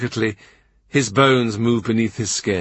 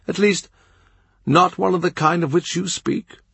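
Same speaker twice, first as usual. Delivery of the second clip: higher-pitched voice of an aged, frail bishop; old bishop; 8 semitones higher than usual. Acted. Old Bishop Fisher correcting Cromwell, a higher frail voice. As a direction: lift into the old bishop's voice, gently puzzled.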